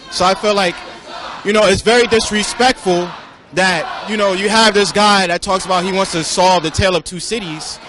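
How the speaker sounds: heated, rising to a shout; loud angry rant. Real, not acted. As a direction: vent it loudly at the reporter. Angry protester ranting.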